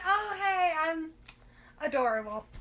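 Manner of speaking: high, bright mock-cute hello; cutesy greeting. You greeting your date, mock-cute high hello. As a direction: play the adorable date. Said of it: "you're like".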